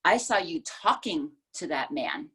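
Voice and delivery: "talking" leaned on; weight on the word "talking"; stress on talking. Shown as a demonstration. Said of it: "talking as opposed to yelling".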